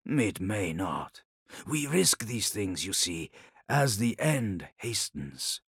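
measured, weighty reply; lightly voiced Khan, solemn and deliberate; resolute Khan. The Khan defends his oath to Ilya, grave and resolute.

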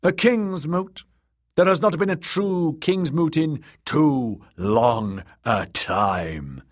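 high, pained exclamation; anguished cry. Acted. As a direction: cry out in dismay at the words. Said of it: "Aeron cried in anguish".

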